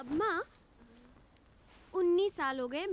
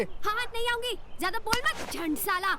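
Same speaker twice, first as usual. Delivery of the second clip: defiant retort; 4 semitones higher, 3 dB louder than usual. Acted. Woman retorts in quarrel.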